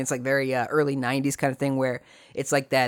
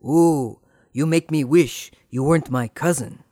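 imitating lustful Gilbert. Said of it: "Gilbert says".

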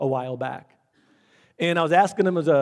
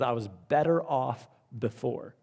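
softer, rueful voicing of the ruined winner; regretful quote; 3 semitones lower, 6 dB quieter than usual. Preacher voices the lottery winner's regret softly. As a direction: quietly quote his regret. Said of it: "He says".

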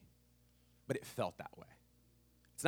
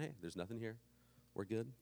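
soft reassuring dad; 13 dB quieter than usual. Retold or imitated. Dad calming child quietly.

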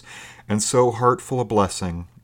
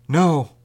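loud, high, emphatic refusal; extraordinary emphasis; 8 semitones higher, 7 dB louder than usual. A narrator's reading. Stranger refusing a boat for the woman, extraordinary emphasis. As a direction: refuse with full force. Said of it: "said the voice with extraordinary emphasis".

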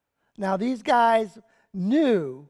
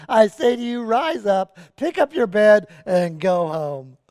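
loud preached command, slowing at the end; a preacher voicing Jesus's loud command; commanding call; 7 dB louder than usual. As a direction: proclaim it over him with authority.

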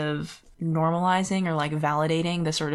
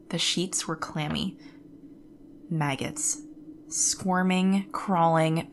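dramatic reading. Shown as a demonstration. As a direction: read it like a creepy bedtime horror story. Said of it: "Maybe you could do a dramatic reading".

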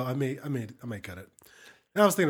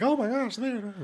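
high squealy gasp of shock; mock shocked gasp; mock overreaction; 11 semitones higher, slower than usual. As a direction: ham up a social media freakout. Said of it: "Everybody's such overreacting".

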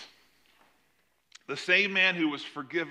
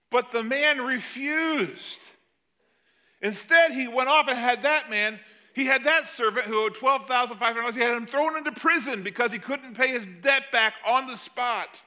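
rising indignation; 5 semitones higher than usual. Real, not acted. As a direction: build outrage at the cruelty. Preacher building to indignation.

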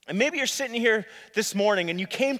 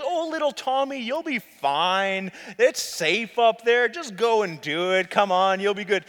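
mock encouraging. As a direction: coax a nervous child, lightly hammed-up. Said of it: "I'm encouraging these kids".

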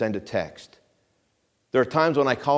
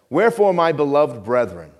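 tender tone; 4 dB louder than usual. Shown as a demonstration. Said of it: "Do you hear the tone?".

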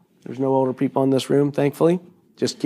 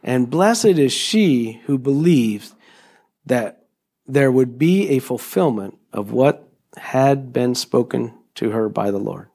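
slow reading; 4 semitones lower than usual. Shown as a demonstration. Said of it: "Let me read that one again".

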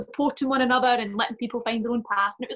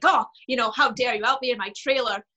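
Bette Davis parody; 3 dB louder than usual. Retold or imitated. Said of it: "I was kind of like".

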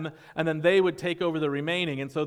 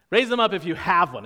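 louder repeat; 3 semitones higher, 5 dB louder than usual. Real, not acted. Pastor asking the congregation again for a show of hands, louder. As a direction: call it out louder.

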